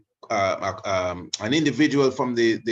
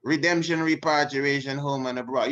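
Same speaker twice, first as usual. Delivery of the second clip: lightly imitating the recorded speaker, higher, chanting the words; echoing King Emmanuel; 5 semitones higher than usual. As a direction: repeat the slogan the way the clip says it. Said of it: "That's King Emmanuel. Listen good".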